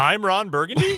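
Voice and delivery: questioning lilt, "Burgundy" rising sharply at the end; Ron Burgundy. Acted. Co-host teasing the host's questioning intro, mock question inflection. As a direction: read "I'm Ron Burgundy" as if unsure, pitch climbing on "Burgundy". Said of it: "made it sound like a question".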